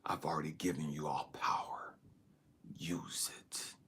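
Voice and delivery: very low, hushed divine voice; God. Retold or imitated. God answering the trapped man's prayer, hushed and low. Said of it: "And then God says".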